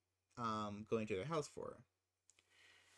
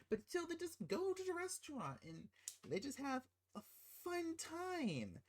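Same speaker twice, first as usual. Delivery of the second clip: sarcastic; 13 semitones higher, 3 dB quieter than usual. Real, not acted. Sarcastic about the couple's evening.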